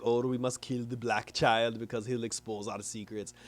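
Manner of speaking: lightly put-on scheming villain; hammed-up robot-brain villain. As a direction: play the evil genius lightly. Villain Brain voiced in recap.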